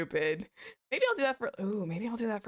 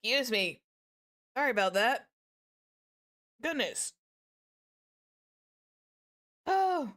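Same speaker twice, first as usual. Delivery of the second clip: recovering from choking on water; coughing up water, catching breath; 5 semitones higher than usual. Real, not acted. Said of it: "I have never choked on my water on stream".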